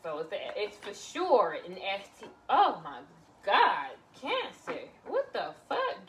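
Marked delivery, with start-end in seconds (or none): 2.5-6.1 loud, drawn-out gasp of disbelief; real shock at a bad tarot card; shocked exclamation. Real, not acted. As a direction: react like the card just floored you.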